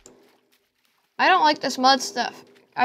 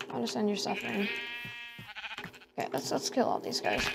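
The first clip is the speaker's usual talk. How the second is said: whisper; 10 dB quieter than usual. Real, not acted. Quietly planning to kill sheep.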